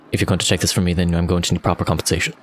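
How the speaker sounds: low, measured formal negotiator; in-character voice. Acted. Character demands payment from wizard, low measured voice. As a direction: lay out terms low and evenly. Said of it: "and I'm going to say".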